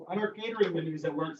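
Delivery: talking while eating chips; mouth full. Real, not acted. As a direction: speak around a mouthful of chips. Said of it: "sorry, I'm still eating chips".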